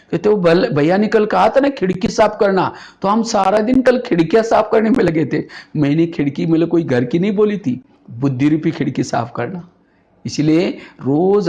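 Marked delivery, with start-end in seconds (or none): 0.3-5.4 higher-pitched imitation of earnest excuse; lightly acted literal-minded mothers; explaining mothers. Acts out mothers innocently explaining absence.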